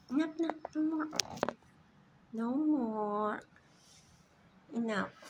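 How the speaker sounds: loud firm enough; firm scolding. Real, not acted. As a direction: scold the pet to stop. Scolding bird to stop.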